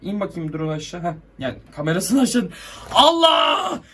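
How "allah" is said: startled cry. Real, not acted. Sudden startled outburst.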